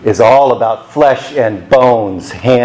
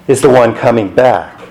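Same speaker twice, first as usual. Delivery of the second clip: higher, slowed, pointed angel voice; mock scolding angel, drawing out same Jesus; angels speaking; 4 semitones higher than usual. Angels chiding the disciples gazing up at the sky, high and pointed. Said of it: "And what do the angels say?".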